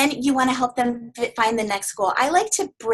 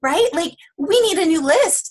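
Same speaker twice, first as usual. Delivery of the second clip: higher, bright congratulating lift; upbeat coach; 5 semitones higher than usual. Shown as a demonstration. Coach congratulating a client on finishing her list, excited. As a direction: cheer them on like a proud coach. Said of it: "you say".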